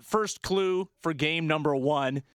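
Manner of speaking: hoarse from yelling too much; raspy, worn-out coach voice. Real, not acted. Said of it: "I sound like a raspy head coach who's been yelling too much".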